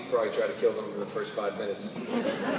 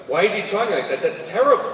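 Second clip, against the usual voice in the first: higher, louder baffled protest; appalled kid; 6 semitones higher, 7 dB louder than usual. Retold or imitated. Dad imitating his son watching Batman, appalled and baffled. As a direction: imitate a child's appalled disbelief. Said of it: "His head whips around and goes".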